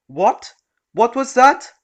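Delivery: shrill demanding yell. Acted. Rude customer shouting.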